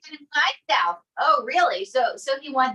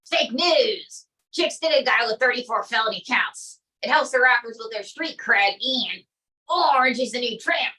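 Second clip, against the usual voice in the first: Trump impression. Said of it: "Donald J Trump".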